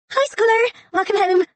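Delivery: high, bright and loud burst of welcome; overjoyed greeting. Acted. Assistant bursting to welcome the scholar home, overjoyed. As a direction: greet her like a long-lost friend. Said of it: "She was tiny and overjoyed".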